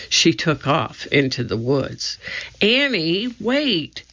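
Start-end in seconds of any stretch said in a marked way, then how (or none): 2.6-4.0 calling out. A narrator's reading. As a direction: call her back before she vanishes. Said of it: "Jack called".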